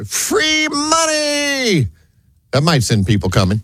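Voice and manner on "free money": drawn-out high squeal; mock scream. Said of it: "What if you screamed".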